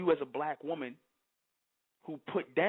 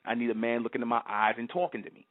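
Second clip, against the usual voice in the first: mock woman quote; 6 semitones lower than usual. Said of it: "y'all sitting up here and say".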